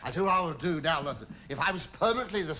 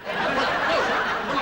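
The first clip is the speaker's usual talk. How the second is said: high, louder giggly start; laughing; 8 semitones higher, 8 dB louder than usual. Acted. Laughing embarrassed.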